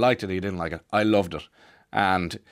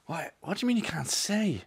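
high-pitched whining disbelief, much higher; a mocking kid voice, pitched way up; outraged kid; 10 semitones higher, 5 dB quieter than usual. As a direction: squeal it like an exasperated schoolboy. Frustrated classmate pleading.

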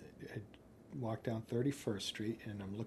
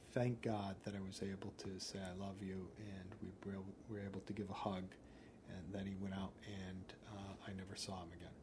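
quiet, understated sadness; subdued grief; 2 semitones lower, 7 dB quieter than usual. Real, not acted. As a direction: let the voice sink softly as you recall a last goodbye. Recalling last goodbye to lost friend.

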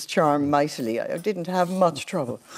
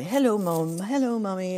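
lightly voiced small child, a little higher; toddler daughter; 6 semitones higher than usual. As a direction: imitate a toddler calling to mum on the television. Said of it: "she'll go over to the television and she'll say".

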